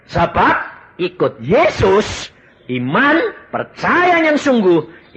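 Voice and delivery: high, loud and slow preacher's call; loud slowed-down sermon peak; fiery preaching. Acted. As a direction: drive the faith point home with full force. Preaching climax, raised voice.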